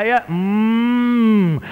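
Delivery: drawn-out, slow mocking insult. Mother insulting her chubby daughter, mock. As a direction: drag out the insult at the chubby girl. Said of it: "اقول لها".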